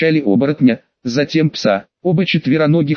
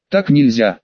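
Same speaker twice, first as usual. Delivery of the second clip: plain reading voice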